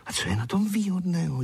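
high-pitched wondering question; puzzled surprise. A narrator's reading. Zuzka questions the loafer's logic, surprised. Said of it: "diví se Zuzka".

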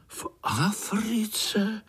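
slow astonished whisper; amazed whisper. Acted. Spiders in chorus, amazed at the uncle's tale, whispered. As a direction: breathe it out in wonder. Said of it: "úžasli všichni sborem".

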